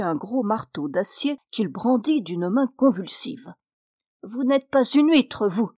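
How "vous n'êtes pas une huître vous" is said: high, loud yelping cry; a furious gnome yelps the insult. Acted. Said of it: "d'une voix glapissante". (voix glapissante, aiguë et forte)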